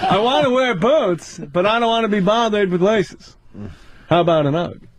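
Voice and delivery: lightly imitated observational stand-up delivery; Jerry Seinfeld. Comic riffs on women's boots, light stand-up impression. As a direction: set up each phrase, pausing between them. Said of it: "Seinfeld, what's the deal".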